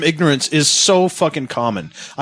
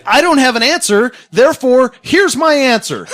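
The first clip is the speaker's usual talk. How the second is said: squeaky high mock of a dumb argument; 11 semitones higher, 4 dB louder than usual. Mocking a believer's logic in a high silly voice. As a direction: pitch way up to ridicule the logic.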